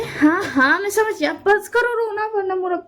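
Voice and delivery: high teasing. Acted. Teasing friend to stop crying.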